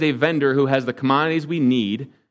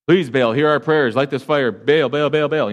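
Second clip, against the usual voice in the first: a raised, imploring chant of the name; pleading cry to Baal. Retold or imitated. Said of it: "they started crying out".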